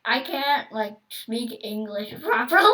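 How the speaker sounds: giggling apology; laughing. Real, not acted. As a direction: laugh while excusing yourself. Giggling self-excuse.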